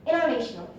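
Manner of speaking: international as "innernational", no T after the first N; American dropped T. Shown as a demonstration. Student demonstrating American pronunciation, T dropped from international. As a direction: say international low, swallowing the T. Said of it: "they pronounce it".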